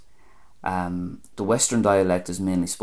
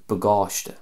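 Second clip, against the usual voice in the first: "bagáiste" as buh-GAWSH-tuh; stress toward the end. Shown as a demonstration. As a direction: stress the long second syllable of "bagáiste". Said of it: "more of an emphasis and stress on the end".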